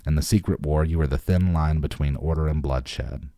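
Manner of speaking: measured game-introduction narration; dramatic book reading. A narrator's reading. Presenter reads gang the game's introduction, dramatic narration. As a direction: read it like a trailer, building through each list.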